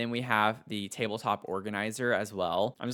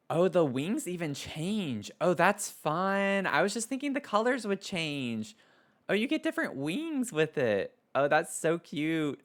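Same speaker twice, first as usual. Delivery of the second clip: much higher squealing excitement; thrilled; 6 semitones higher than usual. Real, not acted. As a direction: gasp and gush over a surprise. Thrilled discovering changing wings.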